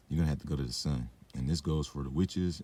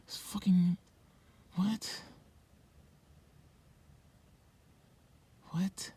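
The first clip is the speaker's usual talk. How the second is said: whispered disbelief; slower than usual. Real, not acted.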